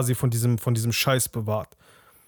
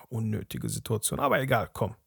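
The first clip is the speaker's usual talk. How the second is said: hushed inner thought; 5 semitones lower, 6 dB quieter than usual. Retold or imitated. Annoyed inner thought at the table.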